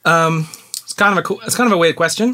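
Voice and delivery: put-on Australian accent. Host introduces a listener's question, put-on Australian accent. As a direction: read it out as an Australian. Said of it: "ask the question in an Australian accent".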